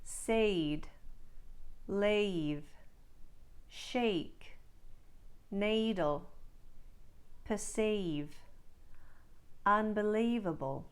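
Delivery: Australian vowels, said slowly one by one; Australian accent demo. Shown as a demonstration. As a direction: model each word in an Australian accent. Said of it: "Let's try some words and phrases for practice".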